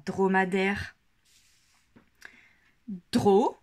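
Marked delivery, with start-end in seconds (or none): 3.1-3.6 "Dro" said alone, louder, cut off from the word; isolated syllable. Shown as a demonstration. Teacher isolates the syllable "Dro" in "dromadaire". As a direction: pull out the syllable "Dro" on its own. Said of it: "on entend bien le son D".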